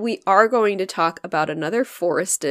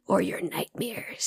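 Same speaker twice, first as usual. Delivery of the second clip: scary voice; 12 dB quieter, slower than usual. Acted. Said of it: "my scary voice".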